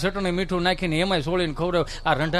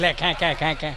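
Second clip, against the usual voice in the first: mock laugh; 5 semitones lower, 4 dB quieter than usual. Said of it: "કેવા દાંત કાઢે છે?".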